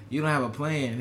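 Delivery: imitating Trump. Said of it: "why you do your mouth like that when you imitate Trump".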